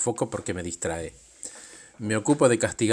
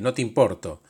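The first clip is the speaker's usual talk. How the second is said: louder, accusing; raised voice; 4 dB louder than usual. Retold or imitated. The speaker raises his voice at the demanding self, accusing. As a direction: push back with a raised voice. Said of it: "le levanté la voz".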